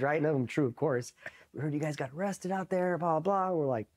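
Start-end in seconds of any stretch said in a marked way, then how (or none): 1.5-3.6 high-pitched mock gossip; imitated rumor-mongering. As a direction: act out mates pestering for the story. Barracks mates repeat rumors.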